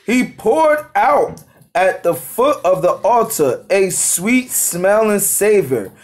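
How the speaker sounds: slow, measured reading of holy text; scripture reading. Acted. Reading the verse to the study group, slow scripture reading. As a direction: read it out slowly, phrase by phrase.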